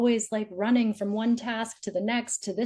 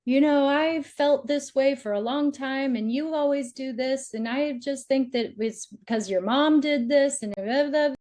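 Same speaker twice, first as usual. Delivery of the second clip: a raised, complaining rant at a partner; lightly mock the partner who lectures on and on; whiny monologue; 5 semitones higher than usual. Speaker imitates a partner's long complaint, higher and whiny. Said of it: "going on long monologues".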